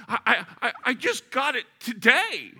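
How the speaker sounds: high, loud, halting stammer; stammering owner. Retold or imitated. A stunned new Porsche owner stammering out his loss. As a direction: stutter it out in disbelief. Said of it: "he was stammering and staggering".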